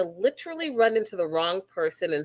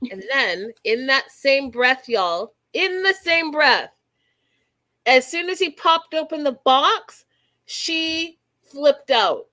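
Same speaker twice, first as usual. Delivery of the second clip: outraged; 6 semitones higher, 4 dB louder than usual. Real, not acted. Outraged storytelling build.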